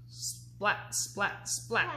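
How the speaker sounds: unvoiced splats; splat sounds. Parent reading, unvoiced splat noises. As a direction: spit out each splat. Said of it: "He makes lightning".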